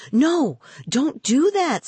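high, slow, alarmed shriek of no; panicked girl crying out high and slow; high screech. Acted. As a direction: shriek it out to stop him in alarm. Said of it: "screeched Rima".

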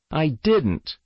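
put-on high-pitched child's protest; frantic denial. A narrator's reading. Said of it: "with a frantic denial".

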